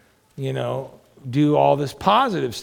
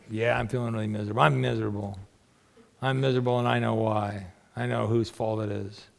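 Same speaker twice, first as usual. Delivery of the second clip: miserable caller; 5 semitones lower, 7 dB quieter than usual. Retold or imitated.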